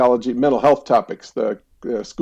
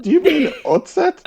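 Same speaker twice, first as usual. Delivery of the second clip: high, gentle question; lightly voiced young clerk guessing his meaning; clerk correcting him. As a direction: helpfully suggest the right word. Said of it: "And she's like".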